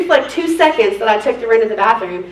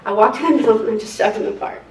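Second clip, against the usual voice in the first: ordinary talk, nothing marked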